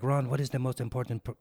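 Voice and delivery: attempted Chinese-Jamaican accent, poorly imitated; shaky attempt at a Chinese-Jamaican accent; bad Chinese-Jamaican accent. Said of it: "It's a terrible impression".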